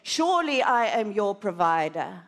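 calm assuring voice; voice of God. Acted. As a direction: speak as a providing Lord. God's voice spoken to her.

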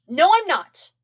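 high, loud denial; shouting. A narrator's reading. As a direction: blurt it out in a panic. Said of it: "Zuko shouted".

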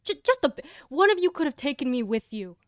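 aggrieved, pointed reproach; offended complaint. Acted. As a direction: sulk loudly at the friends who left you. Complaining party abandoned him.

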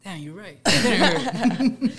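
small voice settling after crying; imitating a kid calming down from tears; mock post-cry. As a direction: meekly agree through a laugh. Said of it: "I'd be crying".

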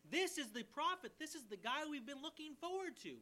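excited proclamation. Real, not acted. Preacher to his congregation, proclaiming with rising excitement. Preacher exclaiming the awaited prophet.

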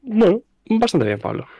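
words stretched through a yawn. Real, not acted. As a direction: yawn while talking. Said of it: "Perdón por bostezarte".

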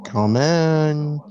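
high, loud parent call. Acted. Parent answering door in story.

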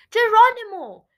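high, loud cry of the name; sharp rise in pitch and volume, then falling; exasperated squeak. Acted. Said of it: "Creepyla squeaked, exasperated".

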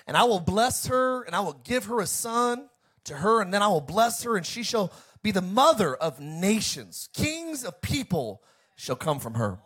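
preacher proclaiming as God; God speaking. Acted. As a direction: read it as God's solemn promise, in emphatic phrases. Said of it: "Then God said to Abraham".

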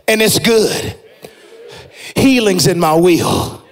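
steady, believing declaration, each line landing; confident declaration. Shown as a demonstration. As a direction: declare it like you own it. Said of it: "say it like you believe".

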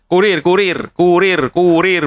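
"kurir" repeated with rising force; insisting correction. Shown as a demonstration. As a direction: drill "kurir" over and over. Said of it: "kok gak bawa andong".

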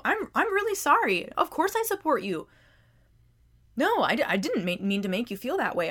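genuine apology. Retold or imitated. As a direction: apologize like you truly mean it. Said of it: "they say it in a genuine way".

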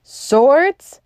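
loud, high battle cry; rally the men with a roar; shout. A narrator's reading. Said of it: "shouted Syme".

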